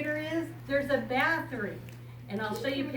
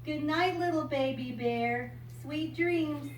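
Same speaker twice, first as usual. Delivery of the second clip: gentle good night; 4 semitones higher, slower than usual. Acted. Saying goodnight to baby bear.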